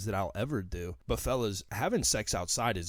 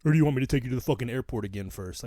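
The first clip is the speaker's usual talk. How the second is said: louder, exasperated outburst at a friend; fed-up ranting at the absent friend; angry rant; 2 semitones higher, 5 dB louder than usual. Real, not acted. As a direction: vent it, building heat, the last line rushed. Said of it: "that's gonna lead me right into my rant".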